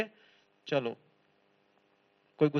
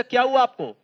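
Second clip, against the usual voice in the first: sudden higher, louder cry of surprise; startled question; 6 semitones higher, 6 dB louder than usual. Pretend. Man knocked off his bike asks what happened. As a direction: jolt out the question as if just knocked over. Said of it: "आपने पूछा".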